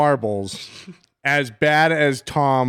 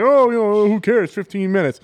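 dismissive imitation; 5 semitones higher than usual. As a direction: brush it off like it's nothing. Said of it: "Everyone's like".

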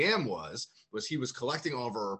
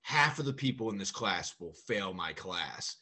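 slow, mock-ominous teacher; movie-style teacher; 4 semitones lower, slower than usual. Teacher warning his new class, mock dramatic. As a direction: draw it out like a movie line. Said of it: "trying to do, like, a movie thing".

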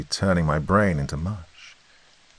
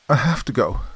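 curt; 6 semitones higher than usual. Acted. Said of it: "fast and curt".

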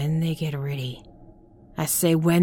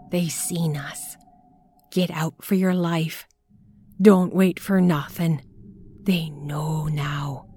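trembling whisper; 4 dB louder than usual. Acted. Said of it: "trembling whisper".

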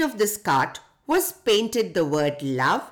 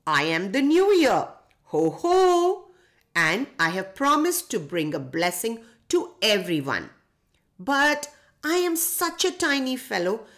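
tinkly bell voice; 4 semitones higher than usual. Acted. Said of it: "replied a tinkling voice".

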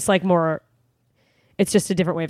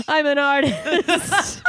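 mock pretentious artist; 6 semitones higher, much slower than usual. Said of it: "I'm sketching".

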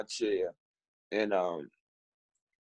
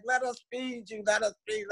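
high-pitched imitation of coaxing nurses; pleading nurses; 8 semitones higher, 4 dB quieter than usual. Nurses offering to feed a patient, high-pitched coaxing. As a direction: plead in a raised, put-on voice.

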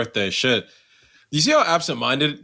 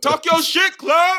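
hype cheer; 11 semitones higher, slower than usual. Real, not acted. Cheering Claire on.

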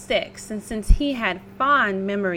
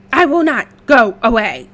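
wolf voice; 10 dB louder than usual. Acted. Wolf answers pig.

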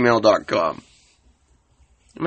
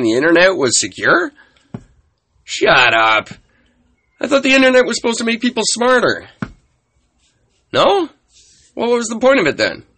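a clueless man out of time, mildly incredulous; lightly acted confused guy from the nineties; bewildered nineties guy. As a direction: play a guy stunned to learn it's not 1994. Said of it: "my impersonation of a guy who thought it was still nineteen ninety-four".

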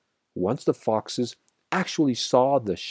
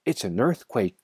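usual speaking voice

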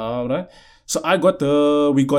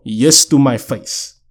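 slow, every word weighted: Yes to my face; slow emphasis; 3 dB louder, slower than usual. Shown as a demonstration. Telling listeners to remember her reply, slowly stressed. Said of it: "Remember this quote".

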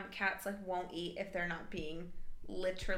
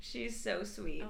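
cat voice; slower than usual. Real, not acted. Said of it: "fighting me speaking in my cat voice".

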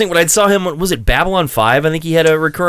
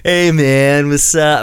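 lightly voiced Californian surfer stoner; a hint of surfer-dude greeting; Sean Penn; much slower than usual. Mocking Californians who talk like film surfers, light stoner-dude voice. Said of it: "Sean Penn".

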